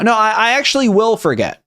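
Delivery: ordinary talk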